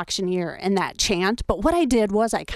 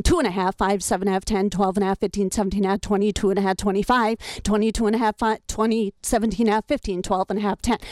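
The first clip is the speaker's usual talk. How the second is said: half-step number drill; faster than usual. Shown as a demonstration. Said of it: "like this".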